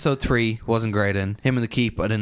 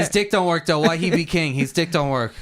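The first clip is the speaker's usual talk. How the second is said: Sansa; 6 semitones higher, 3 dB louder than usual. Retold or imitated. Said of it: "and Sansa went".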